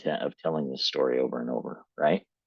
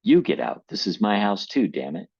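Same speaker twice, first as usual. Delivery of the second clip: much higher and louder, a hard shout; firing back; 4 semitones higher, 4 dB louder than usual. Acted. Reading Dad shouting back at Mom, a loud retort. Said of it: "he fired back".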